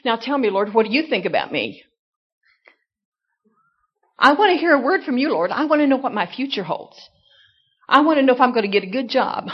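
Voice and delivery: a hint of a breathless, fast, pushy prayer; mock-earnest pleading to the Lord; imitating eager pray-er. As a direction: rush the requests at God like a greedy child. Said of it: "Then you say to the Lord".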